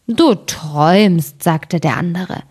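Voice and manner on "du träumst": slow, drowsy giant brushing it off; dozy giant dismissing his companion; sleepy giant. Acted. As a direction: mumble it half asleep. Second giant answers sleepily.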